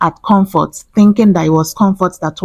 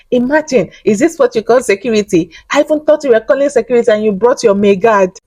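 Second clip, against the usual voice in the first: mocking; 5 semitones higher than usual. Retelling Princess mocking the security.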